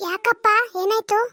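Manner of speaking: put-on a worried mother answering her boy, drawn out; mother answering her son's call, slow and concerned; mother's concern. Son calls his mother.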